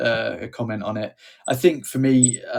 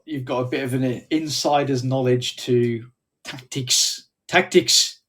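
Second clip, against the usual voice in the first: put-on light South African accent on tactics. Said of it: "Don't know why I said it in a South African accent".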